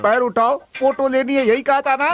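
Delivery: high-pitched, incredulous quoting; angry questioning. Acted. Village head asking the accused to confirm, angry. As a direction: throw the accusation back at him.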